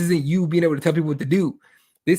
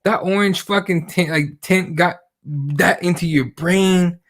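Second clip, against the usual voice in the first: incredulous quote; slower than usual. Retold or imitated. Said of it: "And I'm like".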